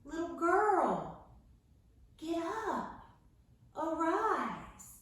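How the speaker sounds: slow, gentle, soft call; gentle wake-up to a sleeping child; soft and sweet. Acted. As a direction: coax her awake tenderly. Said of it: "I think he was soft and sweet and gentle".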